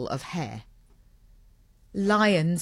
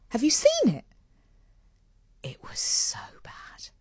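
whisper; 10 semitones higher than usual. Real, not acted. Confiding a bad movie verdict.

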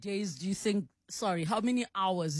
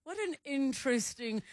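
imitating a hesitant reviewer, higher pitch; mock noncommittal; 4 semitones higher than usual. Host teasing guest over the film verdict, mock noncommittal. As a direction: lightly parody a hedged, doubtful verdict. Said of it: "The way you said".

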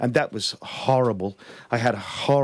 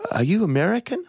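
retold concertmaster; 9 semitones higher than usual. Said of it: "the concertmaster came to me and he said".

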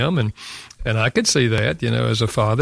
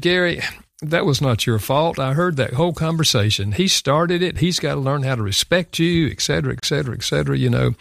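his wife's insistent reassurance, lightly imitated in higher pitch; a higher-pitched, lightly voiced wife taking his side; wife consoling him; 4 semitones higher than usual. Wife defends her husband after the argument, lightly imitated and insistent.

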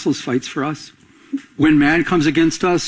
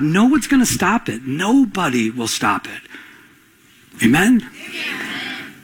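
raised preacher's voice, climbing in pitch; preaching; 3 semitones higher than usual. Acted. Pastor assuring the church God fights for them, preaching. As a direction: lift them up, preach with conviction.

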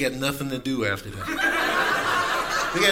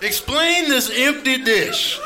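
angry hungry cat; 6 semitones higher than usual. Retold or imitated. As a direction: chew out the owner like a furious cat. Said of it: "they come in there like".

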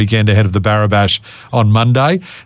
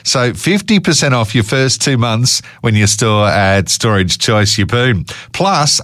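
upbeat live radio ad read. Acted. Host reads live ad.

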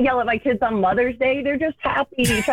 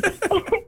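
muffled scream into a pillow; 8 semitones higher than usual. Real, not acted. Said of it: "Can you scream into your pillow?".

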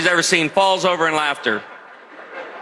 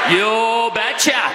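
put-on very slow, drawn-out Norwegian accent; imitated Norwegian father's accent, slow; thick Norwegian accent; 2 semitones higher, much slower than usual. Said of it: "in his thick Norwegian accent".

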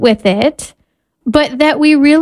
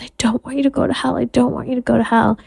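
put-on soft whimpering child; 6 dB quieter, much faster than usual. Weeping child quoted at bedtime.

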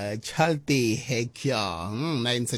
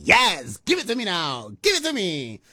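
excited, higher pleading; eager craving; 7 semitones higher, 4 dB louder than usual. Real, not acted. Host craves the samosas a listener named, excited pleading. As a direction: beg playfully for the food.

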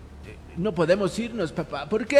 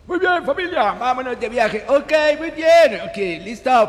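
high, loud cartoon father; rally the family in a squeaky voice; high-pitched dad voice; 6 semitones higher, 5 dB louder than usual. Father character rallies the family.

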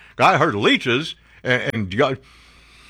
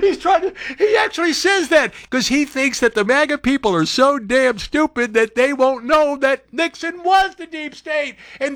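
high, laughing through the words; laughing rant; 10 semitones higher than usual. Real, not acted.

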